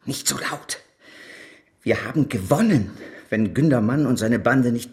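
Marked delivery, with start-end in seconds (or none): 0.1-0.8 mahnend. Acted. Mahnt zur Verschwiegenheit.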